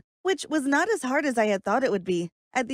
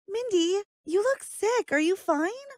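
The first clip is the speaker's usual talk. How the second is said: put-on high, concerned girl voice; worried friend; 10 semitones higher than usual. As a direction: ask gently like a worried friend. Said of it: "asked me".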